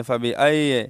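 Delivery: فَبِأَيِّ loose, ending "ai-ye"; mistaken slack ya. Retold or imitated. Teacher imitating the misreading, slack ya. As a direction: pass lightly over the y in فَبِأَيِّ. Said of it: "یہ غلط پڑھ رہے ہیں".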